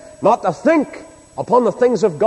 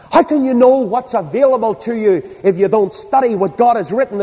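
raised, urgent pulpit voice; emphatic preaching; 6 semitones higher than usual. Real, not acted. Preacher urges hearers to study God's blueprint, emphatic preaching. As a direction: press the congregation with each phrase.

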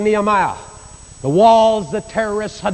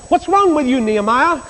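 king's question; 9 semitones higher than usual. Retold or imitated. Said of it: "the king said".

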